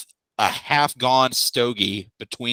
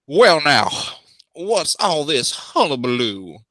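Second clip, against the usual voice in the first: ogre husband voice; 4 semitones higher, slower than usual. Acted. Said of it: "He's like".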